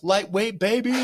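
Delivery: high, loud hyped-up yell; Ronnie Coleman yell. Retold or imitated. Imitating a bodybuilder psyching himself up to lift, high yell. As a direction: holler it like a battle cry, imitating. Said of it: "he would, he would yell".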